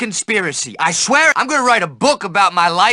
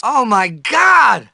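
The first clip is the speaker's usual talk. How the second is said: startled shout; much slower than usual. Acted. Startled paranoid outburst.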